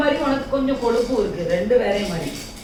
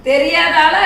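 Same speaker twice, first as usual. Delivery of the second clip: loud call; 4 semitones higher, 8 dB louder, slower than usual. Real, not acted. Reassuring scared child, calling out.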